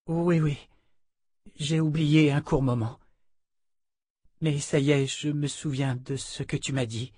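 hint of a shaken heroine; lightly voiced young woman. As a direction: lightly play a woman insisting she remembers.

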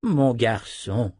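put-on slow, drawn-out old wizard; vieux sorcier pensif. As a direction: muse aloud to a lad. (vieux sorcier, lent et pensif)

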